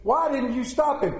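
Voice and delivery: mock shout from the audience; heckler shouting. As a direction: call it out like a heckler. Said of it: "heckler who shouted from the audience".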